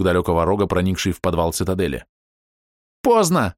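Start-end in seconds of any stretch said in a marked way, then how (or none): 3.0-3.5 high squealing cry, louder; shrill squeal. Acted. Fox warrior squealing as the horn sounds, high alarmed cry. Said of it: "взвизгнул Матук".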